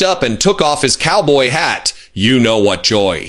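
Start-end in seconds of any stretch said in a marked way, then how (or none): 2.1-3.3 eerily calm. A narrator's reading. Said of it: "his voice eerily calm".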